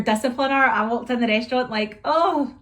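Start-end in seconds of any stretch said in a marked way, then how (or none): 2.0-2.6 high, loud "oh" of embarrassment; acted dismay. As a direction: caught out in front of onlookers. Acts out realising diners watched.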